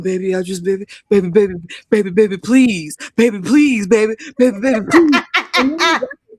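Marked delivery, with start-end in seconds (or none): 0.0-5.2 mock Southern pleading, rapid-fire repeats; hammed-up Southern begging, breaking into laughter; imitated Southern accent. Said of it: "like, Southern accent when he was doing it".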